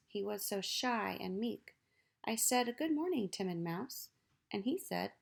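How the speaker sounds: put-on lively read-aloud for children; poem reading. Teacher reading a poem to children, lively. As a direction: read it like a picture-book poem to kids.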